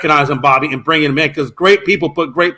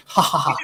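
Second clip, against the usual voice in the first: fake laugh; 6 dB quieter than usual. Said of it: "I can laugh too".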